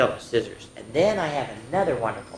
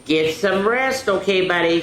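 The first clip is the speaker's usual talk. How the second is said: put-on boy tucking in dog; 5 semitones higher, 6 dB louder than usual. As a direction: soothe the dog to sleep. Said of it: "said Bobby as he shut".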